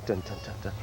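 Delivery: low, soft slow-motion sound effect. Pretend. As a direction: drone it like a slow-mo replay. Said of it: "let's say, in slow motion".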